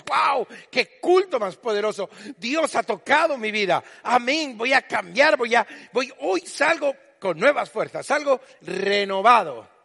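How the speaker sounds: alto y fuerte, eufórico; grítalo como quien sale renovado; entusiasmo tras el culto. Retold or imitated. (entusiasmo exaltado, más agudo y más fuerte)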